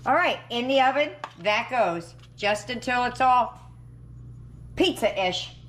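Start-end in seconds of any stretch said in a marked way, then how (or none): none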